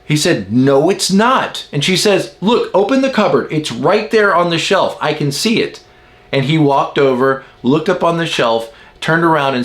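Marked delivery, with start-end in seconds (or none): 0.5-1.7 higher, slow mock denial; drawn-out contradiction. Husband denying the mug is there, insistent contradiction. 2.4-5.8 higher-pitched retold exasperation; exasperated insistence. Wife telling husband to open the cupboard, exasperated.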